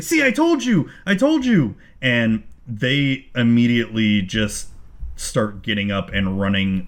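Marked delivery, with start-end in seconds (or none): 0.0-1.7 frantic goblin. Acted. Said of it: "the goblin's just like".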